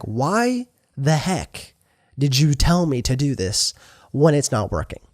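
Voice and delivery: mildly exasperated, drawing out "why the heck"; acted frustration, stretched opening then back to pace; frustrated complaint. Moses complains to God that it's not working, mildly frustrated. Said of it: "So Moses is frustrated with God".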